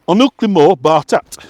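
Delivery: sing-say the title line like a Halifax mill worker; lightly voiced West Yorkshire dialect; West Yorkshire accent. Shown as a demonstration. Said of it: "an authentic West Yorkshire".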